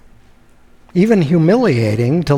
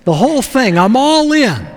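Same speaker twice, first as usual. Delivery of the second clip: eager commitment. Retold or imitated. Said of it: "He says".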